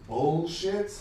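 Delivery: bullshit in a plain American accent. Shown as a demonstration. Comic testing a word that sounds wrong, American accent. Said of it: "said in this American accent".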